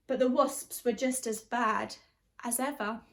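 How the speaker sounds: lively storybook reading in rhyme; teacher reading a picture book, animated; reading to children. A narrator's reading. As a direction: bounce the verses for a class. Reads picture book aloud.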